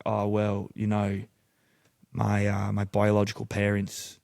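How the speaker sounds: lightly put-on Australian cover story; Australian accent. Faker explaining his American passport, light Australian accent. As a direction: explain yourself with a hint of Aussie. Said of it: "I started doing an Australian accent".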